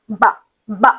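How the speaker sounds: ba kept light, no qalqala; soft ba without a jolt. Shown as a demonstration. Teacher demonstrating a light ba, soft and plain. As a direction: say ba lightly, no bounce at the end. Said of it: "اس کو جھٹکا نہیں دیتے".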